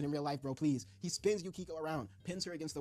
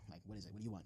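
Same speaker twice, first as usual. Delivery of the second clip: reluctant mumble; 6 semitones lower, 10 dB quieter, faster than usual. Acted. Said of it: "Koda's like".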